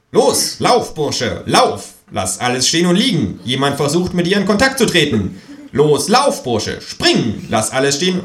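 high, loud urgent kangaroo yell; shouted ringtone voice. Acted. Kangaroo's ringtone yelling at the narrator, urgent. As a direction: bark the ringtone orders up high.

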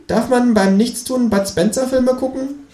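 high, slow, hopeful kangaroo. A narrator's reading. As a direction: kangaroo angling for film time.

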